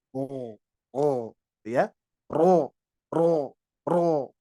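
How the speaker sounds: "Oh, oh, ro, ro" throaty and thick; heavy ro. Shown as a demonstration. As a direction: lift the tongue root like gagging on "ro". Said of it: "pangkal lidah mengangkat".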